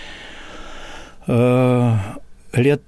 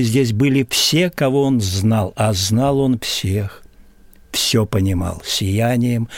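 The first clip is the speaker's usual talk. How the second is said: poem recitation. Acted. Recites his own poem.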